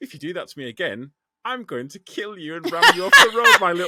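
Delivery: very loud yet calm, sinister, acted menacing delivery. Describing a driver who cuts you up, the speaker delivers a very calm threat. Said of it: "you kind of very calmly say to them".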